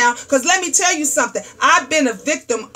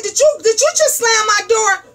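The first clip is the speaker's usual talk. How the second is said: mock angry; 7 semitones higher than usual. Retold angry confrontation.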